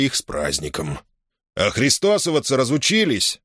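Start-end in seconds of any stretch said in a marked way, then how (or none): 1.5-3.4 mocking question, lifted higher. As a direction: tease them with a jeering lilt. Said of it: "насмешливо спросил". (насмешливо, с издёвкой)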